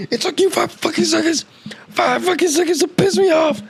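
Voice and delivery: real heated outburst; heated rant. Real, not acted. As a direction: spit it out in real frustration. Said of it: "I was getting a little too heated".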